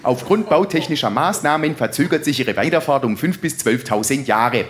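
lightly imitated railway station announcement; distorted loudspeaker voice. Station announcer tells the dead of a delay, loudspeaker announcement voice. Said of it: "knackt ein Lautsprecher".

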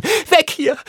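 put-on boy warning his friend of a falling boulder, screaming. A narrator's reading. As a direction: yell to get your friend out of danger. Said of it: "schrie ich".

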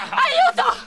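shrill desperate cry for help; calling for help. Acted. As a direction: scream for help in panic. Woman attacked, calls for help.

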